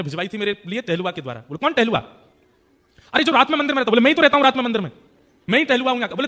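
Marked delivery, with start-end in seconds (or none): 1.6-6.1 louder and higher, arguing at the gate; heated exchange. Acted. Doorkeeper and Kale Khan quarrel loudly at the gate. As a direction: insist over each other.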